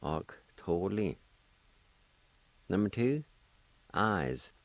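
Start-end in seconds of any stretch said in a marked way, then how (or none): 0.0-1.2 "Octoly" said slowly, the G as a K; careful pronunciation. Shown as a demonstration. Teacher showing the dropped vowel, "Octoly" slow with a K sound. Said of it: "Let me pronounce that again".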